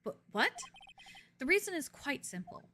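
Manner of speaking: measured, formal courtroom voice; stern prosecutor. Acted. Prosecutor addressing the judge, formal and measured. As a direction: lay out the objection calmly. Reading courtroom lines in character.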